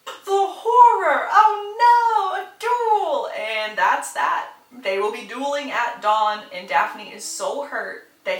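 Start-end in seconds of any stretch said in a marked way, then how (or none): 0.0-3.3 high, loud theatrical wail; drawn-out melodramatic exclamations; mock horror. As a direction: cry out in hammed-up dismay. Mock dramatic reaction to duel.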